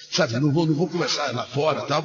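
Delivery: usual speaking voice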